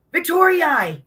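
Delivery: high loud call of her name; calling out like Ric Flair. Retold or imitated. Ric Flair calling the wrestler by name, high call. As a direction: sing out the name to pull her over. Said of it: "He called me Victoria".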